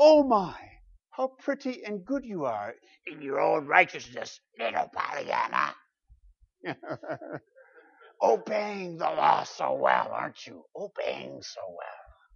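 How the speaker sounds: hoarse, hushed, growling, taunting whisper. Speaking to an audience, voicing sin in sheep's clothing, in a Gollum-like hoarse falsetto. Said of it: "whispering in its hoarse, growling tones, trying to sound sheepish in its cheap falsetto".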